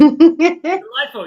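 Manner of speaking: very slow, loud British delightful; stretched British accent; mock British. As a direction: savour it in a plummy British voice. Host mocks British accent.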